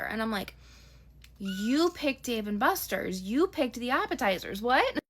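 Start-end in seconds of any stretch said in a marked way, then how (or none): 1.4-5.0 slow at first, then rising to a higher, louder "What?"; building incredulity, ending in a high burst; exasperated disbelief. Retold or imitated. Inner exasperated retort to date.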